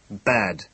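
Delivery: "Bad" set apart as one weighted word; emphatic repetition. A narrator's reading. Commissioner repeating his verdict, "Bad" said with emphasis. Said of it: "he repeated with emphasis".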